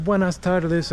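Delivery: Buenas tardes in a mild mock gringo accent, flat American vowels; a hint of American-accented Spanish. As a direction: lightly imitate tourists saying Buenas tardes with an American accent. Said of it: "in a very gringo accent".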